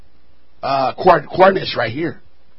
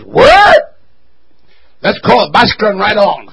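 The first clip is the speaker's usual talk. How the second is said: mock reader skipping a word; 6 dB louder than usual. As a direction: parody a reader dodging a hard word. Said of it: "he said to the congregation".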